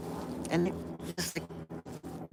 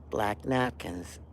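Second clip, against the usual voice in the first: hushed awe; 6 semitones lower, 8 dB quieter, slower than usual. Real, not acted. Discovering the track on album.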